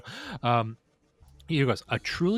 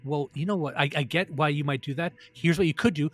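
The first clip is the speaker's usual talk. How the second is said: sarcastic; 3 semitones higher than usual. Retold or imitated. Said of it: "I always ask".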